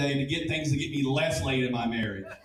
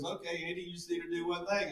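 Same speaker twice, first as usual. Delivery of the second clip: soft, restrained doctor's voice; calm doctor; 9 dB quieter than usual. Acted. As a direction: advise the patient quietly. Doctor's advice, acted out.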